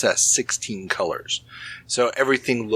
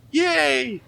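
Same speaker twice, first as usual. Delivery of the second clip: excited yay. Acted. Mock cheer closing a topic.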